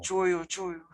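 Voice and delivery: high, lightly voiced girls saying choyo; mock whiny choyo, choyo; imitating girls saying cold. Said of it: "I always hear girls going".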